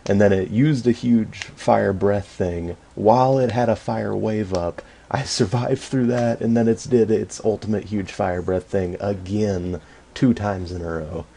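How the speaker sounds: loud, emphatic frustrated recounting; indignant venting. Real, not acted. Player telling viewers how the dragon attacked, indignant. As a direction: pile up the complaints with rising force.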